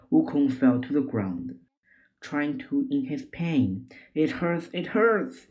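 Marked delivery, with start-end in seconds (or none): 4.1-4.7 raised, pained cry; first cry of hurt, a little higher; pained whimper, pitched up. Acted. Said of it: "he cried". 4.7-5.5 the hurt peaks, voice jumps up; high pained wail; crying in pain. Acted. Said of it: "he cried".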